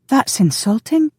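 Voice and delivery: high, slow, shocked woman's voice; affronted, pitched right up; gasped indignation. A narrator's reading. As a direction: draw it out, scandalised. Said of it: "she gasped".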